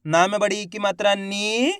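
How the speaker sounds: spelling out, with "नी" held long and rising; drawn-out long vowel. Shown as a demonstration. Teacher showing how the letter is sounded, "नी" drawn out. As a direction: stretch "नी" upward at the end. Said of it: "ना का उच्चारण कैसे कर रहे हैं".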